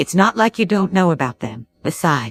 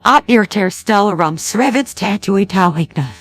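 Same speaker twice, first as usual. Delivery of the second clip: reversed gibberish words; backwards speech. Acted. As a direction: say it as if played backwards. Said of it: "now we start talking backwards".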